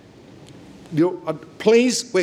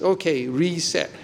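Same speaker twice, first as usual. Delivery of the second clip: mock casual. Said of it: "It's just".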